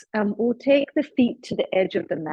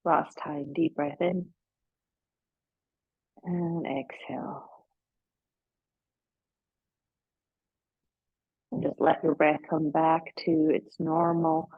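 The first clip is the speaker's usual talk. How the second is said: unhurried yoga nidra guidance with long pauses; guided relaxation. Real, not acted.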